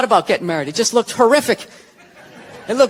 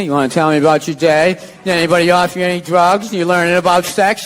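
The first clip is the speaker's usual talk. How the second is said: prying parent; 5 semitones lower than usual. Retold or imitated. Voicing prying parents at table.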